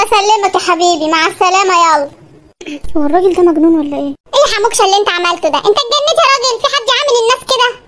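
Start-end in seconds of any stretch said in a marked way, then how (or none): 4.3-7.8 quick, rising higher reproach; scolding mother. Acted. Mother scolding father for rudeness, quick and higher. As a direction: tell him off like an exasperated wife.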